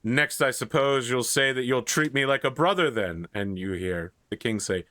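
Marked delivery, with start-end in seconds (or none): 0.0-3.3 mildly pompous, slightly raised voice; a touch of haughty huffiness. Acted. Brother needling the new king, lightly pompous. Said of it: "a sort of pompous voice go".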